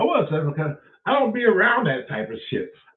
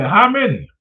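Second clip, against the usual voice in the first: hostess voice; 6 semitones higher, 8 dB louder than usual. Retold or imitated. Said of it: "the girl said".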